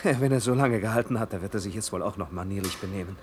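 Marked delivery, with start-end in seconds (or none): 0.0-1.3 laughs it off, louder and higher; laughing. Acted. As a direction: brush off the danger with a laugh. Joking about the old lift. (lachend, laut und höher)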